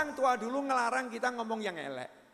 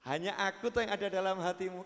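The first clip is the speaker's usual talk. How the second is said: sweet talk; 3 semitones lower, 3 dB quieter, faster than usual. Shown as a demonstration. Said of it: "Wah, kan keren".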